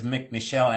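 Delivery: "McNichelle" run together, starting "Mc"; mispronounced name. Shown as a demonstration. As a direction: say "McNichelle" with a short first syllable. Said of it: "how did you pronounce".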